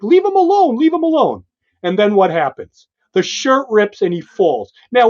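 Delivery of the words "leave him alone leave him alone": higher, mock pleading girl; retold plea. Girl begging Langowski to drop Banner, mock pleading higher. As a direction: plead with him, lightly acted. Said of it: "she's like".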